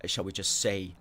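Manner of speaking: normal talking voice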